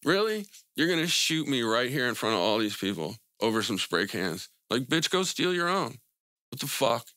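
put-on retelling telling off a kid with a gun; defiant retort. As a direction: dare him, cocky and incredulous. Retold defiant reply to gunman.

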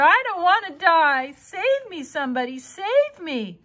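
high frightened begging; panicked pleading. Acted. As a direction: beg for rescue in panic. Pig begging for life.

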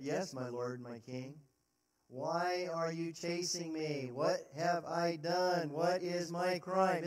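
David humbly pleading to Saul; humble plea. Acted. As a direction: plead your innocence gently.

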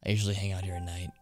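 understated, hushed bug enthusiast; lightly voiced bug collector. Bug collector confiding in Jimin about deals at night, lightly voiced and quiet. Reads game character's dialogue aloud.

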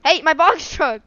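loud, high, drawn-out shout; slow high yell after someone; calling out. Real, not acted. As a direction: call out loudly in protest. Calls after truck.

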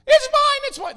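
high, loud grabbing cry; mock claiming shout. Anybody grabbing your stuff, mock yell.

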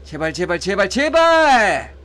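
mounting desperate plea; real pleading. Real, not acted. Begging the game for good pulls.

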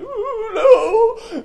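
high, loud drawn-out wail; exaggerated bawling protest; mock wailing. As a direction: cry out in hammed-up anguish. Boy's reaction to spanking his dad.

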